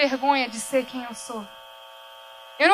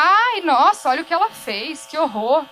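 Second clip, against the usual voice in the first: mock scandalized busybody, a bit louder at the start; mocking gossip; 5 dB louder than usual. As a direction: put on a judgy gossip's gasp. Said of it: "sem medo de que vão achar". (fofoqueira escandalizada, em tom de deboche)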